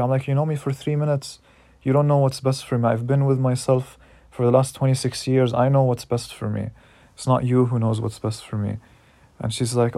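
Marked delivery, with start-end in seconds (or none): 0.3-8.8 louder, insistent pushback, quicker in places; retold angry defiance. Telling the teacher she doesn't know best, louder and defiant. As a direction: firmly put the teacher in her place. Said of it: "really, really mad at her".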